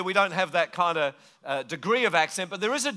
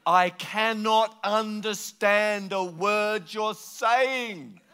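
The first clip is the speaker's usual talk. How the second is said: exasperated plea; 4 semitones higher, much slower than usual. Retold or imitated. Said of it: "I say".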